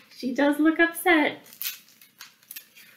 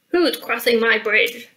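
slightly raised troll challenge; shouting troll; 4 dB louder than usual. Acted. The troll challenging someone on his bridge, mildly shouted. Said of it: "shouted the troll".

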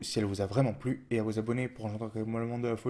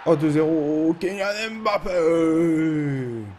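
slow, stretched commentator goal call; 3 semitones higher, 5 dB louder, much slower than usual. Acted. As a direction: call the scorer's name long.

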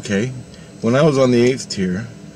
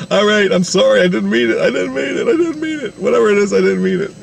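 high, hurried apology, repeated over and over; mock frantic backpedalling, voice climbing; pleading apology; 8 semitones higher than usual. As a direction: plead it wasn't meant. Hurried apology retold in laughter.

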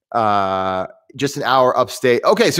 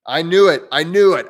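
higher, louder, playful "there he is"; gleeful gotcha; 5 semitones higher, 4 dB louder than usual. Real, not acted. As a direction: caught you, teasing triumph. Catches Papa Geek listening.

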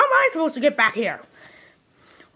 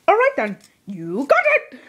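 leprechaun voice; 2 semitones higher than usual. Acted. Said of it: "You sound like a little leprechaun".

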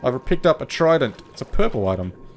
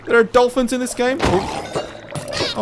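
excited surprise; 10 semitones higher, slower than usual. Real, not acted. Player spotting dolphins in the game, excited surprise. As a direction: exclaim it in thrilled disbelief.

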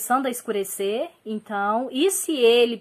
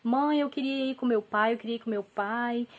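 put-on mildly whiny retelling of a child's plea; imitated tearful child. Small son begging mom to go with dad, mildly tearful imitation. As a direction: plead like a child left behind, lightly imitated. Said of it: "meu filho ficou chorando".

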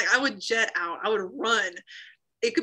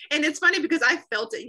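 laughing; 6 semitones higher, 5 dB louder than usual. Real, not acted. Laughing while telling of salvation.

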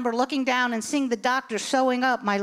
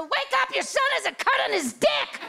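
urgent wake-up; 12 semitones higher than usual. Retold or imitated. In sleeping husband's face.

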